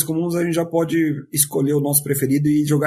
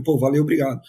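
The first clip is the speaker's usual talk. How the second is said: lower, easy thank-you; genuine thanks; 4 semitones lower, faster than usual. Retold or imitated. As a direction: imitate a sincere, casual thanks. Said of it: "Era, era genuíno".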